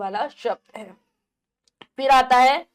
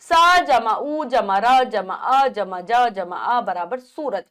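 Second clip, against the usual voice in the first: very slow, each part held apart; slow spelling out; slower than usual. Shown as a demonstration. Teacher slowly spelling a syllable for children. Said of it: "उदाहरण है".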